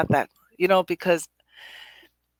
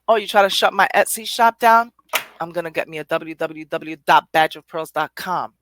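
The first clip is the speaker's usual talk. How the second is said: defiant retort; 7 dB louder than usual. Pretend. Voicing her defiant reaction.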